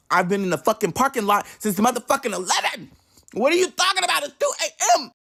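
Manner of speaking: exasperated outburst. Retold or imitated. Telling sister about waiting since eleven, exasperated. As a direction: pitch climbing high in indignation.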